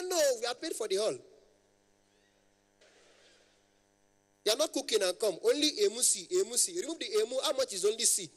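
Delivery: high-pitched haggling caller; imitated high-voiced man. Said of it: "their voice is very, very high".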